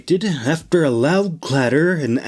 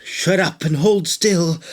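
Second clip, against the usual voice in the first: snapping; 4 semitones higher than usual. Acted. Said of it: "Nora snapped".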